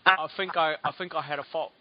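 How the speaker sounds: th as f: "think" said "fink"; South London accent. Shown as a demonstration. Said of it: "they take the T H and they make it an F".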